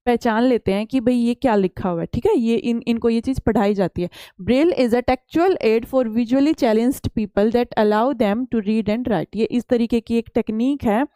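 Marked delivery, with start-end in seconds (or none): 4.4-9.4 slow, deliberate reading of the English slide. Acted. Teacher reads the textbook slide to students, slow and careful. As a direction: read each word out for the class.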